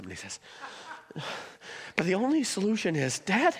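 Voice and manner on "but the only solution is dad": higher-pitched mock tearful plea; imitated sobbing child. Son begging dad for a red balloon, mock sobbing. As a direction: imitate a small boy pleading through tears. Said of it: "and he's sobbing".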